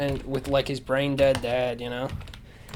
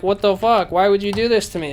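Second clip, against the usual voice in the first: higher-pitched imitation of an anguished son; mock heartfelt pleading; 5 semitones higher, 3 dB louder than usual. Abandoned son to his mom, mock heartfelt pleading. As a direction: plead as if pouring your heart out, hammed-up. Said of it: "pouring his heart out to her".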